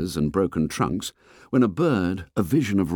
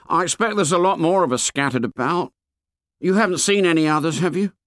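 put-on fat boy voice; 9 semitones higher, faster than usual. A narrator's reading. Fat boy complains to the fair boy, high and whiny. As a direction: complain like a chubby schoolboy.

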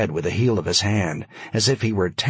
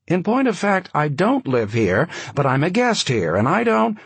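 cool, higher, commanding; frosty commanding; 7 semitones higher than usual. A narrator's reading. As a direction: order him like a cold aristocrat. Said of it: "lion's tone of cool command".

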